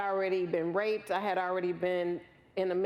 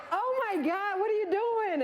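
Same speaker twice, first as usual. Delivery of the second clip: high-pitched, distraught uncle imitation; aghast relative, played for laughs; mock panic; 13 semitones higher than usual. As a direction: wail in hammed-up alarm. Retells her uncle's panicked reaction.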